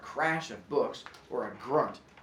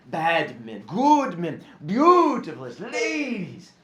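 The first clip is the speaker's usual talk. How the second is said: rising higher and louder, slowing at the end; father reading the tale aloud; father's storytelling voice; 5 semitones higher, 10 dB louder, slower than usual. A narrator's reading. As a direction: savour each phrase like an old storyteller. Father's voice lists figures.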